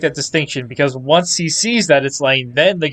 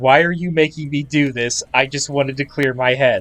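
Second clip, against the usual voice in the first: usual speaking voice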